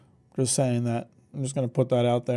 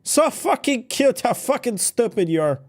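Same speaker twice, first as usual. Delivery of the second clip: mock French accent; 8 semitones higher than usual. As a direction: fake French accent, sneering and elitist. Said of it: "so the French accent came out".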